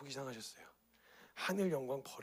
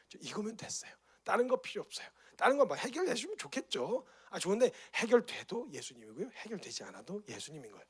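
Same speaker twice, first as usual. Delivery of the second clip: higher, light, happy voice of a believer; joyful confession; 5 semitones higher than usual. Acted. Believer telling Jesus he is enough, gladly. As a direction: sound like you need nothing else.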